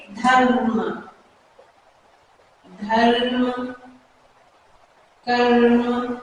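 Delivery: slow धर्म, कर्म with the र held and lightly vibrating; drawn-out demonstration of र in धर्म, कर्म; trilled r. Shown as a demonstration. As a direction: let the tongue flutter on र in धर्म and कर्म. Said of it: "उसमें हल्की सी थिरकन होती है".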